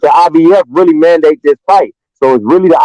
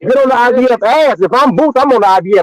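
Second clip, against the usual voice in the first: pitched up, pressing the point hard; heated insistence; 5 semitones higher than usual. Real, not acted. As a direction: push it like you're fed up with the delay. Heated argument over the belt.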